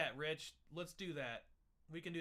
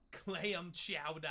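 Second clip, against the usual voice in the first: put-on Boston accent; 3 dB louder, much slower than usual.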